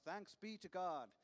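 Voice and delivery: hammed-up response from the pews; congregation shout. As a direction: belt it out like the whole congregation answering. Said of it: "everyone shouts".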